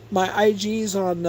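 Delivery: ordinary delivery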